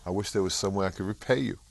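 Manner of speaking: playing the grateful Southern mother, light Southern accent; southern woman's voice. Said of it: "she had this lovely southern accent".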